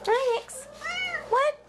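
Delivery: high-pitched chat with a pet; pet talk. Real, not acted. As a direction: answer your pet as if it just spoke, up high. Answering a pet sweetly.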